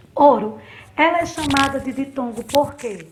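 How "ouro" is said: Ouro called out loud; word said out clearly. Shown as a demonstration. Teacher to pupils, naming ouro loudly. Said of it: "Na palavra ouro".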